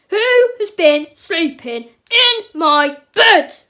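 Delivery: very loud, slow booming roar; big grumpy bear. A narrator's reading. Papa Bear finds his bed messed up, grumpy roar. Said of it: "cried Papa Bear in his big, grumpy voice".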